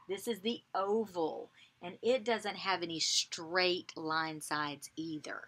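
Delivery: hushed explanatory whisper. Shown as a demonstration. Teacher whispering a shape fact to kids. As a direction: say it under your breath.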